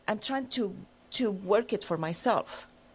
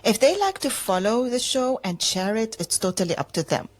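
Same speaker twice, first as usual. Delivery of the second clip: mock scolding; 6 dB louder than usual.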